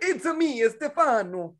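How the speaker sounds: hammed-up Italian restaurateur bit; Italian accent. Actor pitching his Stefano spin-off, mock Italian accent.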